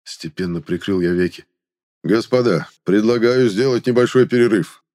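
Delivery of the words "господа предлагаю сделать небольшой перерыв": loud, booming call to the room; booming announcement. Acted. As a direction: boom it out to the whole table. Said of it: "громогласно объявил Пригельд".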